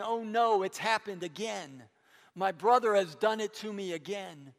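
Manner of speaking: understated cry of anguish at betrayal; bitter cry. Acted. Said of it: "cries out with a bitter cry".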